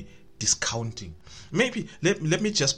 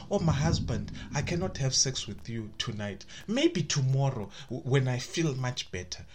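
gentle refusal. Shown as a demonstration. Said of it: "you tell him".

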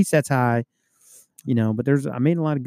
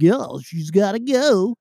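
drawn-out, higher imitation of a sergeant; retold sergeant; 6 semitones higher, 3 dB louder, much slower than usual. Sergeant ordering a rookie to make the arrest, imitated. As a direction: stretch it out like the sergeant giving orders. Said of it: "So the sergeant's like".

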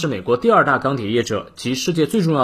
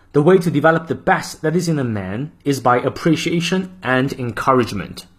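model reading. Shown as a demonstration. Teacher reading the full quote aloud for practice. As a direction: clear measured reading of the quote. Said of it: "最后一遍".

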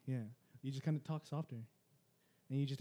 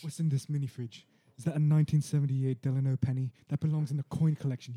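furious chef; 5 dB louder than usual. Pretend. Gordon Ramsay impression.

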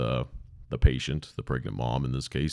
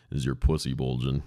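scornful quote; 3 semitones lower than usual. Retold or imitated. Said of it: "fucking clown asking about".

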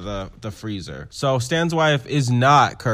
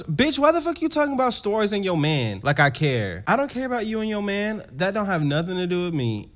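high, pitched-up mock indignation; imitating dismissive Candy; 6 semitones higher than usual. Candy brushing off Angel's talk of her man, high and dismissive. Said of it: "And Candy goes".

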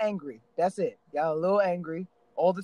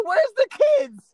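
retold angry demand; 5 dB louder than usual. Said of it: "I said".

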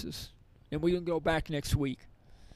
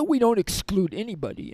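lightly imitated Swiss accent, higher pitched; a hint of Swiss accent in the quote; 4 semitones higher, 3 dB louder than usual. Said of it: "in her Swiss accent".

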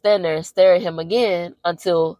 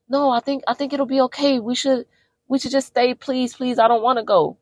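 higher mock pleading; 6 semitones higher than usual. Wife begging to stay.

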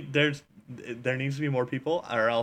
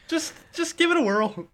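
high squeaky voice; 11 semitones higher than usual. Acted. Teasing guest after impression talk.

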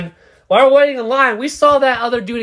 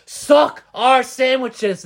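put-on high, slow drunken yelling; slow mock drunk yell; drunk screaming; 6 semitones higher, much slower than usual. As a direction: bellow it at the car window. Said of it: "screaming in her face".

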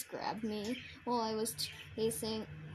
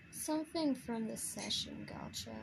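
whispering; 5 dB quieter than usual. Real, not acted.

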